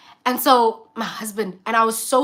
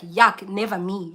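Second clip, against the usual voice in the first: mock disgust; 3 semitones lower, slower than usual. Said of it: "and I'm just like".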